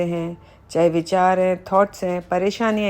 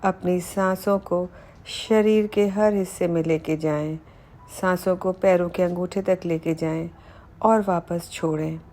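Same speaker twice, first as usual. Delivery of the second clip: measured meditation voice with pauses between phrases; unhurried body-scan narration, phrase by phrase; guided meditation. Acted. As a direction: guide the listener calmly through relaxing each body part. Leads guided body relaxation meditation.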